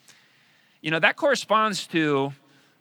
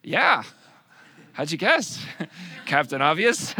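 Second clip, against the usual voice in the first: sarcastic; 4 dB louder, slower than usual. Retold or imitated. Jesus voiced sarcastic, laughing.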